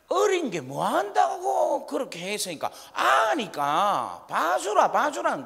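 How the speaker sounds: slow, tearful grandmother begging mercy; grandma pleading to spare the child, rising high on 봐주라. Retold or imitated. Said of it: "할머니는 뭐라 합니까".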